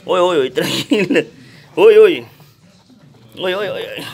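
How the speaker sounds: excited exclaiming. Real, not acted. Owner telling a feisty puppy to settle, loud excited exclaiming. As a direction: fuss loudly at a feisty pup.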